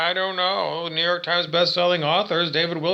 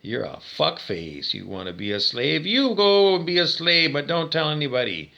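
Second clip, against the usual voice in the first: contemptuous retort; 4 semitones lower than usual. Retold or imitated. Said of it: "And I say".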